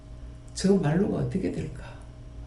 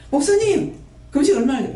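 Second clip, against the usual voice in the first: pleading even higher to the pastor; same fawning plea, now to the pastor, squeaked up high; mock fawning asker; 5 semitones higher, 3 dB louder than usual. Believer begging the pastor about fasting, higher mock plea. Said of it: "이런 식으로 하는 거라".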